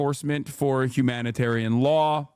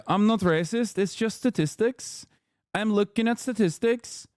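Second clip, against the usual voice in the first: mock Norwegian accent; 4 semitones higher than usual. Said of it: "I'm doing a Norwegian accent".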